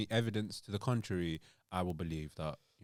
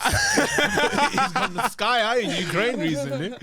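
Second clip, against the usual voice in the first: meerkat voice; 11 semitones higher, 6 dB louder, much slower than usual. Pretend. Meerkat advert parody continued.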